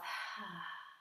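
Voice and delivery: slow, soft breath out through the mouth with almost no voice; long exhale through the mouth. Shown as a demonstration. Teacher demonstrates a slow exhale for the class, soft breathy sigh. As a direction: let the breath drain out quietly through the mouth. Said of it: "that long, slow exhale through your mouth".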